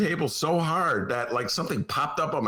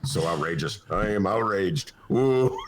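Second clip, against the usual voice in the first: higher mock-indignant ranting; hammed-up outrage; 3 semitones higher than usual. Host exaggerates outrage about the party vote. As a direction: play being furious to the crowd.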